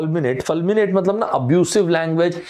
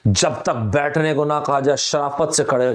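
put-on angry young man; 3 semitones lower than usual. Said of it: "angry young man वाली इनकी image थी".

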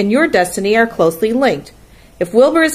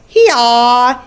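loud, higher, drawn-out animal call; bleating lambs; 5 semitones higher, 6 dB louder than usual. A narrator's reading. Lambs answer the roll all together, loud drawn-out call. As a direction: bray it out like young sheep. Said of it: "answered the lambs all together".

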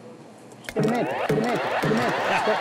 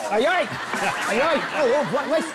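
grito de susto; 3 semitones higher than usual. Acted. Fugindo do ataque, gritando.

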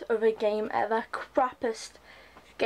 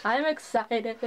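sing-song excited; slower than usual. Pretend. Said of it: "This is my sing-song excited voice".

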